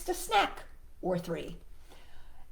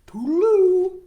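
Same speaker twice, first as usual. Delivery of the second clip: higher, louder, slow sing-song frog farewell; a cheerful frog waving goodbye; cheery high frog goodbye; 8 semitones higher, 10 dB louder, much slower than usual. Acted. Froggy saying goodbye.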